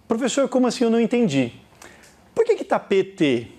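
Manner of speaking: imitating a baffled pupil questioning the teacher; confused student. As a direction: voice a student who is lost.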